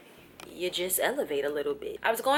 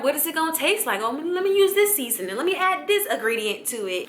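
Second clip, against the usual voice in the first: curious wondering; 7 semitones higher, 4 dB louder than usual. Retold or imitated. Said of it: "You know, wondering".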